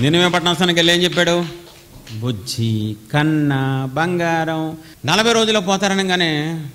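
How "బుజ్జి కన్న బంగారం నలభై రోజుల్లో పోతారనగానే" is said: sarcastic gentle warning; mock sweet coaxing. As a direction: coo it like to a baby, sarcastically. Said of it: "స్లోగా చెప్పారా?".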